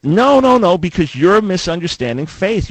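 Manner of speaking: real exasperated pushback, climbing high then easing; heated no. Real, not acted. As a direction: shut down the point with a sharp no. Heated rebuttal, cutting caller off.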